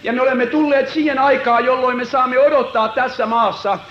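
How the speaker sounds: rising, driving revival sermon; fervent preaching. Acted. Preacher urging the congregation to surrender, fervent preaching. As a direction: preach it with growing fire.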